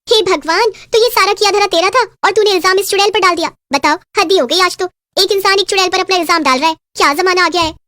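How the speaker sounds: shocked village gossip's outrage; scandalised. Acted. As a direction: exclaim at the shameful news.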